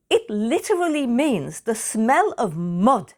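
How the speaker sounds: slow, high, emphatic mock disbelief; imitating an exasperated mother; incredulous explaining. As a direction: spell it out as if it's absurd.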